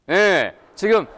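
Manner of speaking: normal talking voice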